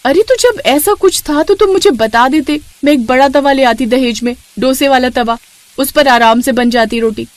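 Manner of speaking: wife complaining about the small pan; exasperated bride. Acted. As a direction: complain to your husband.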